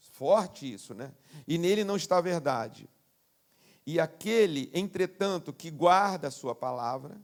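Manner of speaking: preacher reading scripture to the congregation. Acted. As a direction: read the Bible text out with weight.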